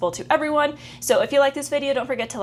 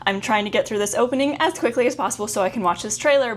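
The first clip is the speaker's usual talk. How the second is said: rushed intro. Real, not acted. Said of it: "I'm talking about twice as fast as I usually do".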